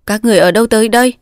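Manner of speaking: brisk, mildly stern question. Acted. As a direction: challenge strangers quickly and seriously. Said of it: "nghiêm nghị hỏi". (nghiêm nghị hỏi nhanh)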